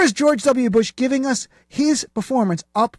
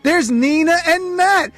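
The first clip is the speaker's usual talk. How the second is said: gushing red carpet chatter; 5 semitones higher than usual. Acted.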